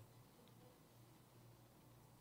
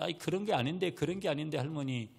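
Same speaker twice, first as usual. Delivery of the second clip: put-on mildly plaintive child's grumble; imitated hinting protest; 4 semitones higher than usual. Granddaughter hinting to grandmother, imitated mild protest. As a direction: leave it hanging, lightly pleading. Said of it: "그렇게 뉘앙스를 남겼어요".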